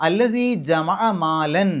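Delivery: slow chanted tajweed recitation; Quranic recitation. Shown as a demonstration. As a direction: recite the verse slowly and melodically. Recites the verse.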